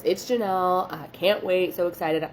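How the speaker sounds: mock eager arrival; imitated excitement. Client announcing herself at the door, imitated excitement.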